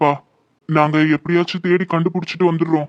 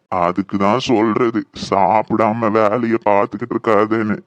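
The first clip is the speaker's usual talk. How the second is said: much lower, slow motherly scolding; 9 semitones lower, slower than usual. Acted. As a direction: chide him like an old mother. Mother scolds fainted son.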